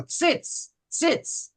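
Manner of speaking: "Tzitz, tzitz" hissed without voice, high; a sharp unvoiced "Tzitz" twice; teacher hissing the sound; whispered tzitz. Shown as a demonstration. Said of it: "But then we go".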